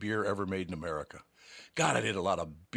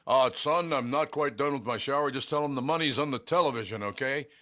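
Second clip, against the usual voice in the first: calling from shower; 6 semitones higher, 4 dB louder than usual. Retold or imitated.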